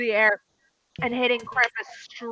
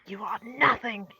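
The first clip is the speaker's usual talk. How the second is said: menacing voice; 3 dB quieter than usual. Acted. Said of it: "you hear a voice".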